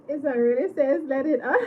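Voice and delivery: words broken by laughter; giggly and breathless; laughing. Real, not acted. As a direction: still laughing as you speak. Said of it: "I cannot stop laughing".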